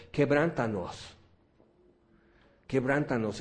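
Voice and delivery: earnest plea. Retold or imitated. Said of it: "algo que estuvimos pidiendo fue esto".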